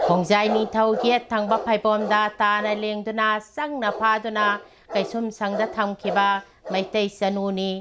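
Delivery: measured, even-pitched poetry reading; poem recitation. Acted. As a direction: recite in steady phrases, pausing after each. Recites own poem to audience.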